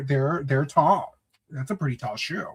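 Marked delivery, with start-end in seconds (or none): 0.0-1.1 slow stretched description. Real, not acted. Struggling to describe high heels.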